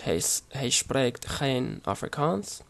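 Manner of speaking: slow, careful attempt at Dutch pronunciation; attempted Dutch accent. Shown as a demonstration. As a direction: try a halting, non-native Dutch accent. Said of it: "forgive me for my pronunciation and accent".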